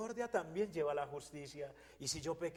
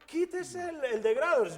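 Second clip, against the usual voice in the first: commanding order; 11 semitones higher, 10 dB louder than usual. Retold or imitated. God orders ring removed.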